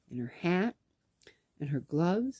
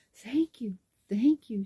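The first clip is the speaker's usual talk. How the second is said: retold thank-you, pitched up and breaking into whisper; gushing thanks in a higher voice; imitating grateful thanks; 6 semitones higher, 5 dB louder than usual. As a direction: act out a touched recipient. Retold grateful reply to gift.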